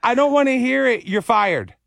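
high, loud mock fury fading down; mock-angry kid boss. Girl ordering the dad out, high loud mock anger. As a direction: toddler boss losing her temper. Girl firing him angrily.

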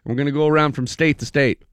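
high, eager promoter voice; mock pitch. Celebrity organizers pitching to the kid, high and eager. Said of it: "everyone was like".

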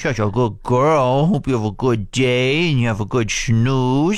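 lightly cooing pet talk, slowed down; dog voice. Retold or imitated. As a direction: soothe the dog gently before leaving. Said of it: "everyone has a dog voice".

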